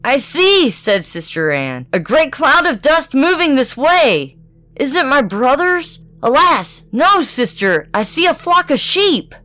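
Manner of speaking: put-on high, watchful young sister; sister on the tower. A narrator's reading. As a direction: report what you see from above.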